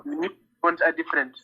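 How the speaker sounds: repeated clearly for a listener who missed it; to someone hard of hearing. Real, not acted. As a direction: spell it out so they hear. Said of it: "Say again?".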